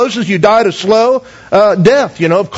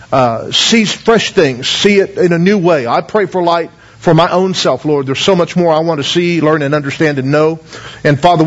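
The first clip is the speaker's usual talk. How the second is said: prayer; 4 semitones lower than usual. Acted. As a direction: pray over the room, voice sinking toward amen. Leads a prayer.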